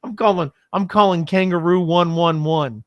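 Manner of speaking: a badly faked Australian accent, mock tough; terrible Australian accent. A bad Australian accent, threatening the noisy neighbor. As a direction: ham up a bad Aussie twang. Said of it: "That is a terrible Australian accent".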